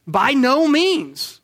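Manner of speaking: slow, emphatic proclamation; mock yell. Shown as a demonstration. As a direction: call it out slowly, like an exclamation. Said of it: "yelling it out here".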